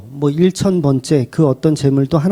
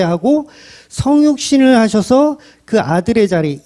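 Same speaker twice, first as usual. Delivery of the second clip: ordinary talk, nothing marked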